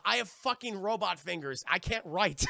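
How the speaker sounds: loud, exasperated comeback; aggrieved bickering, played for laughs; bickering retort. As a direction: protest it in mock indignation. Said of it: "even though they bicker".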